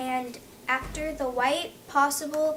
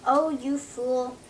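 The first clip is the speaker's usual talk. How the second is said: disgusted. Acted. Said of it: "his wife said in a disgusted tone".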